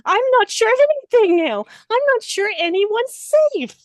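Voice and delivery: high, fast anxious rush of words. Retold or imitated. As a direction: blurt it out high and fast, unsure anyone survives. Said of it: "you're just like".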